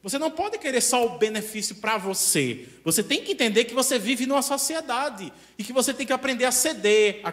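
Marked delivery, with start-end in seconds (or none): none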